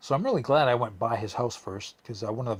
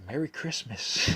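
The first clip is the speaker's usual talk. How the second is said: smug laugh; 4 semitones higher than usual. Retold or imitated. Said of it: "I was like".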